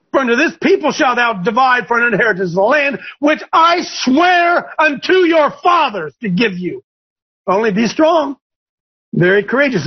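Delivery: high, pushy voice of God urging Joshua on; God as a brash coach, rising high at the end; preacher voicing God, high and emphatic; the Lord speaking. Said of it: "the Lord says".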